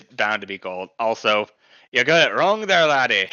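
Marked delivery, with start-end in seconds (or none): 1.9-3.3 put-on higher-pitched playful Scottish accent. Co-host correcting the fisherman impression, Scottish accent. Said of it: "accent to O in the accent".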